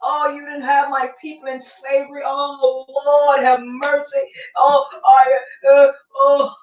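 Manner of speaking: hammed-up pleading lament; mock her tearful plea with exaggerated moans; mock heart-pouring. Woman pouring her heart out to slave master, mock lament. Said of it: "she's pouring her heart out".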